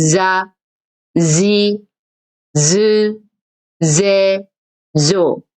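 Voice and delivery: 자, 지, 즈, 제, 조 read one by one, voiced; voiced za row. Shown as a demonstration. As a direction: model 자 지 즈 제 조. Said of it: "이렇게 발음하시면 돼요".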